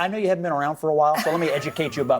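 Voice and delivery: condescending, quick and half-laughing; patronizing. Real, not acted. Guest talking down to a fellow panelist, patronizing. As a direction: talk down to her with a smirk. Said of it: "you don't need to patronize me".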